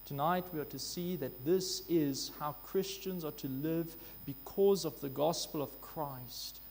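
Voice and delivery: usual speaking voice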